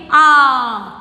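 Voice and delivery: आ as one long held vowel; letter alone. Shown as a demonstration. Teacher showing first class what to say, held आ. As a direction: sound out आ alone, firmly sustained. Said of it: "और क्या बोलना है?".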